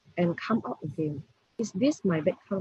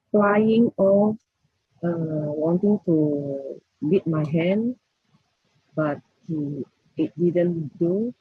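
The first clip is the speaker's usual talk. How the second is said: louder and slow, for someone hard of hearing; speaking louder; 6 dB louder, slower than usual. Real, not acted. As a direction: push the voice out slowly so they hear. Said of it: "Can you speak louder?".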